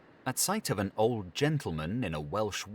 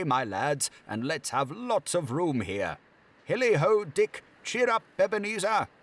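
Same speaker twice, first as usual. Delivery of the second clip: much higher, louder merry orders; jovial master; 9 semitones higher, 4 dB louder than usual. Acted. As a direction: jolly boss rallying his lads for a party. Fezziwig orders room cleared.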